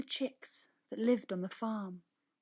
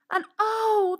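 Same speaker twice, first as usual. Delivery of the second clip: high, loud oh of wonder; surprised gasp; 12 semitones higher, 10 dB louder than usual. A narrator's reading. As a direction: gasp as the egg appears. Egg appears, surprise.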